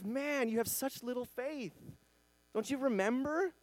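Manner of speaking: lightly voiced Jesus, baffled they forgot; exasperated Jesus. Jesus scolding forgetful disciples.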